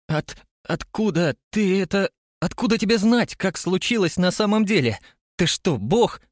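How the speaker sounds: panicked high-pitched scream; terrified horror victim. A narrator's reading. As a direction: shriek it out in terror. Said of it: "сорвалась на крик".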